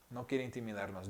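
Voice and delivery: tender, quiet echo of the line; soft repeat. Shown as a demonstration. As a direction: drop to a near hush on the repeat. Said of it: "Dios habla con una voz tan delicada".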